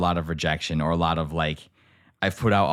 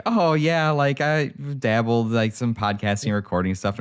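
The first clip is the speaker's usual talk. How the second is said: sheepish downplaying; 5 semitones higher, slower than usual. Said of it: "And I was like".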